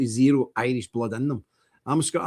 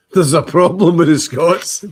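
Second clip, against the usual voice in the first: 1 mock echo; 3 semitones higher, 10 dB louder, slower than usual. Mocking the clip's claim back.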